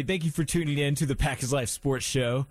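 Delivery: booming sports broadcast announcer; official announcer voice. Shown as a demonstration. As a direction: sign off the show like a TV announcer. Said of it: "official announcer voice".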